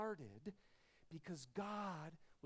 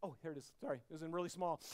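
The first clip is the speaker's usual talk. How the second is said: ordinary talk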